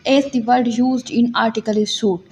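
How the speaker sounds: reads the English law text slowly, word by word, as if for dictation; measured, slow legal reading for students to note down; slow statute reading. Shown as a demonstration. Reads the English commentary aloud. (धीमे-धीमे, लिखवाने के अंदाज़ में कानून पढ़ना)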